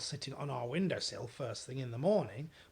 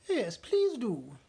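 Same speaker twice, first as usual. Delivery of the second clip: slow, weary yes; slow assent; 7 semitones higher, 6 dB louder, slower than usual. Acted. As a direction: agree tiredly. Queen assent.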